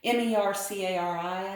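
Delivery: each letter named separately; spelled out. Shown as a demonstration. Telling viewers how the app name is spelled, letter by letter. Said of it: "I think is the way it's spelled".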